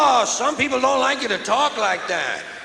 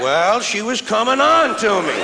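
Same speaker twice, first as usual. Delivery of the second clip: mock rapist excuse; 3 semitones higher, 3 dB louder than usual.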